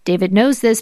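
ordinary delivery

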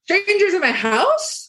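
a high, slow, appalled question; mock outrage. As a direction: squeal it like a scandalized host. Mock outraged self-quote.

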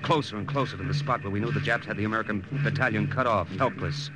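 storyteller looking back on a campaign; war story narration. A narrator's reading.

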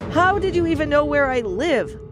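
cornered man's heated comeback; indignant demand. A narrator's reading. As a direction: demand an answer, rattled. Caught cheater confronts his lover.

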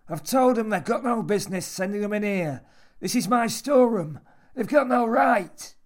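high, loud, sour rant; indignant old man. A narrator's reading. Old man objects to people sent into his storeroom, indignant. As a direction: rant possessively at the top of the voice.

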